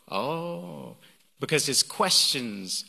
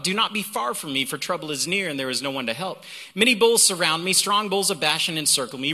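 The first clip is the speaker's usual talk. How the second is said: raised, energetic reading voice; emphatic psalm reading. Acted. Preacher launches into the psalm after "Watch this", emphatic.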